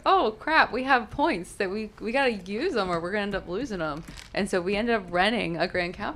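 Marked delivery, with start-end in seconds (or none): 0.1-4.0 mock dismay, easing off; retold alarm. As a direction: replay a sudden mild panic. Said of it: "we were like".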